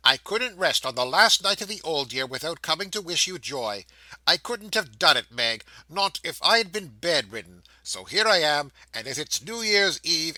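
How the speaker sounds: bustling fondness; hearty matron. Acted. Mrs Chickenstalker's voice.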